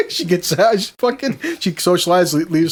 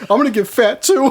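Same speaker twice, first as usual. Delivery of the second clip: higher, imitated tearful wail; hammed-up weepy despair; mock crying; 5 semitones higher than usual. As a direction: wail it as an upset wife, half laughing. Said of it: "called me one time crying".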